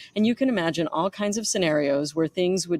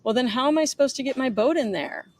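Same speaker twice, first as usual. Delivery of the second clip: put-on whiny New York accent; 6 semitones higher than usual. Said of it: "nasally, whiny voice".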